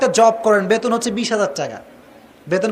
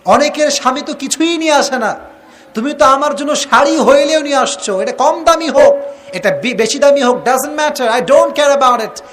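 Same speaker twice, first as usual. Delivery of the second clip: a lightly voiced grateful wife, pitched higher; sweet wife; 5 semitones higher than usual. Wife sweetly thanking her husband for the sari, higher. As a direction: lift the voice sweetly to thank him. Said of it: "স্ত্রী বলে যে".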